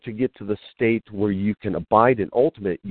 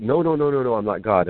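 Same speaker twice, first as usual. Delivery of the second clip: mock horrified denial; 2 semitones higher than usual. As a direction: imitate someone hastily refusing the honor. Acts out same horrified denial.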